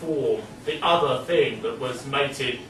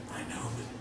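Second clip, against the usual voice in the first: much softer, lower pompous murmur; professor; 5 semitones lower, 17 dB quieter, faster than usual. Retold or imitated. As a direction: begin the solemn confession hushed. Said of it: "the professor ends his tale by saying".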